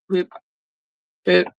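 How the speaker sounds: imitated scanner beeps. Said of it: "she was sort of going".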